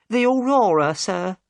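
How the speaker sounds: high and obliging, keen to rent a boat; Mrs Smith, eager to help. Acted.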